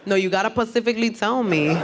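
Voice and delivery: put-on thick Bronx Puerto Rican girl accent; mock Puerto Rican accent. Lawyer pressing the court for an answer, Puerto Rican accent. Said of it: "if you have that kind of accent".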